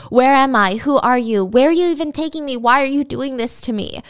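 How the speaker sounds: imitating rapid-fire panicked questioning; acted panic. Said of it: "starts panicking and just rapid fire asking him questions".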